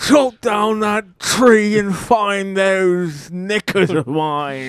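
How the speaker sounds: slow, hammed-up old-timey British; mock George Washington. Washington demanding his knickers, mock old-time voice. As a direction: play a pompous founding father. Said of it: "George Washington sounded more like".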